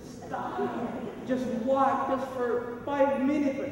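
high, strained whispery pleading; hammed-up desperate plea, high-pitched; mock screaming plea. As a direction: beg like exhausted body cells, without volume. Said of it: "every cell in my body is screaming".

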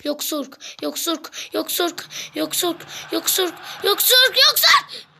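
football play-by-play. Acted. Plays a match while commentating.

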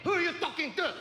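put-on indignant mom in a Filipino accent; Filipino mom confronting. Mom defending her children from a shoe salesman, indignant Filipino accent. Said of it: "My mom talks like that".

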